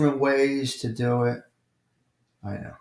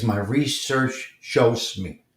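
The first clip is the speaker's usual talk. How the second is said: slow quote; 2 semitones lower, much slower than usual. Shown as a demonstration. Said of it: "All you gotta say is".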